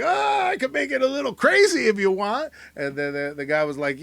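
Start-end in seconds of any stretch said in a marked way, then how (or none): 0.0-2.5 high, louder goofy offer; loud mock rock singer. Host voices a rock singer offering to get crazy, high and loud. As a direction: tempt them playfully. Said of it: "he is like".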